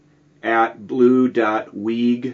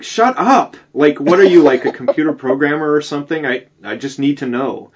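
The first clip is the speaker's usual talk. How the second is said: much higher, louder mock disbelief that settles; incredulous outburst; 4 semitones higher, 4 dB louder than usual. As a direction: blurt it out in disbelief, then calm down. Retold pestering of reenactor.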